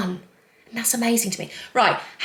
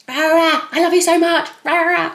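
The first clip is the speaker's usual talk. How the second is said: higher, louder hammed-up family gush; a playful send-up of a noisy family; mock loud family; 7 semitones higher, 3 dB louder than usual. Comparing her family to Spencer's, a hammed-up loud gush. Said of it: "highly strung".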